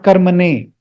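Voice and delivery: karmane with the N on the teeth; tongue against the teeth for the N in karmane; dental N. Shown as a demonstration. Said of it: "not the dental".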